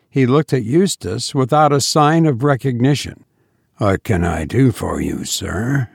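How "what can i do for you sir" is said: pleasant. A narrator's reading. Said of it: "he asked pleasantly".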